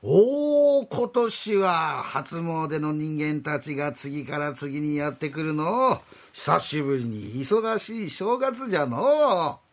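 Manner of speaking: put-on slow, creaky old deity; old god voice. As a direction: speak as a doddering old god. Rakugo god character voice.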